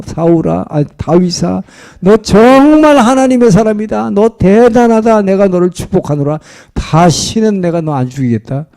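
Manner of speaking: mock tearful. Repentant Saul to David who spared him, mock tearful. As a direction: imitate a weeping king without real sobs. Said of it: "눈물을 질질 흘리면서".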